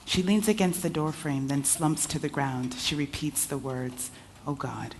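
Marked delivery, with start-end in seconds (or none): 4.5-4.9 tearful gasp. Acted. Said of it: "close to hyperventilating, in tears".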